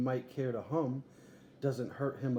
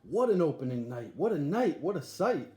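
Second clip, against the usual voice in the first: excited exclaim; 3 semitones higher, 5 dB louder than usual. Acted. Boy dreams of circus opening.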